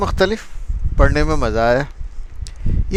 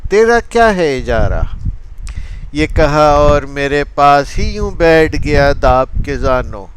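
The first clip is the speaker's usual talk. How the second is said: animated rhythmic Urdu verse recital; poetry recitation. Acted. Reciting a lover's exchange over a lost heart, animated poetry recitation. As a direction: tell the verse story in metre, lifting the quoted exchanges.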